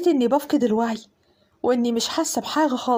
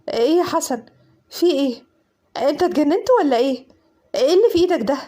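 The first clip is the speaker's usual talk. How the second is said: shouting. Acted. Woman shouting at Hassan holding a gun, alarmed. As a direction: yell at him in shock. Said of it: "بنبرة كلها زعيق".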